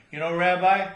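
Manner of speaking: building to a cry. Acted. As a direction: let it swell into an ecstatic scream. Woman cries out during lovemaking.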